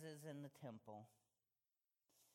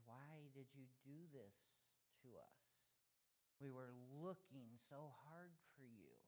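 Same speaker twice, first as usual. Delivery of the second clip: soft, calm and gentle, a touch quieter; 6 dB quieter than usual. Retold or imitated. Mother gently asks her son why he worried them, calm and soft. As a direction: let the question land softly, no blame. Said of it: "she very calmly says".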